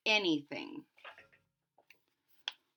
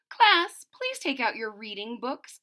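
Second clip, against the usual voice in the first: teacher calling class; 2 semitones higher than usual. Acted. Teacher addressing her class, calling out. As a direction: call the class to attention like a teacher. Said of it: "said Miss Hart".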